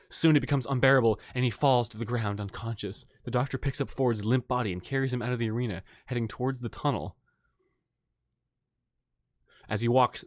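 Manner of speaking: dramatic story read-aloud; story narration. A narrator's reading.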